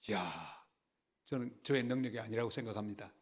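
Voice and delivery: usual speaking voice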